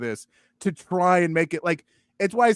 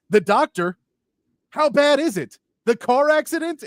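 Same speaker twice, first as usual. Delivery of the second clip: higher, hammed-up phone panic; mock movie drama; 10 semitones higher, 5 dB louder than usual. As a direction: parody a clunky movie line. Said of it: "answers the phone in a movie and they're like".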